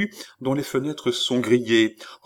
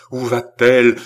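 alarmed; 8 dB louder than usual. Acted. Repeated louder in alarm.

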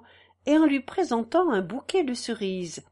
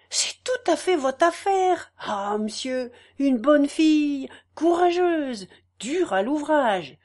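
warming up, eager; 3 semitones higher than usual. Acted. Farmer's wife praising the Renaude to the narrator, eager. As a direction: get more and more worked up. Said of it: "elle ajouta en s'échauffant".

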